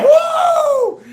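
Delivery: high, loud party whoop; mock woo. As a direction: whoop it out like a thrilled fan. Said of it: "she's letting out a woo!".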